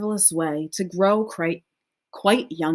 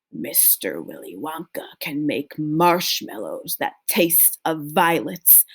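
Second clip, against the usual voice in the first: slowly; 4 semitones lower, 3 dB quieter than usual. Acted. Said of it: "speaking very slowly now".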